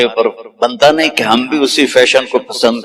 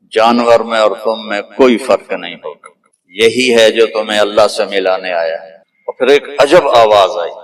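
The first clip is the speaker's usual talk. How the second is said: ordinary talk, nothing marked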